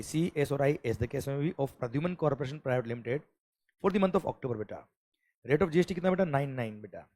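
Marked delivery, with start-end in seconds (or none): 0.0-4.6 reading the problem out slowly and clearly; measured exam-question dictation. Shown as a demonstration. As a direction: dictate each word to the class. Teacher reads question aloud.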